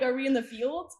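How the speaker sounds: mock-baffled, giggling it out; laughing question. Laughing as she retells asking dad on the drive to campus.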